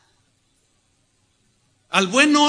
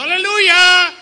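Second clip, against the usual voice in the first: high, loud burst of Aleluya; a loud, high ecstatic cry; sudden shouted hallelujah; 10 semitones higher, 10 dB louder, slower than usual. Pretend. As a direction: blurt it out like a worshipper carried away. Applicant shouts in interview.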